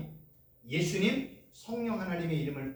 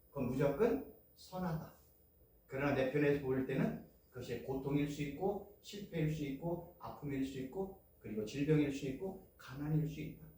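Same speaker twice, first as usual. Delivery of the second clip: ordinary talk, nothing marked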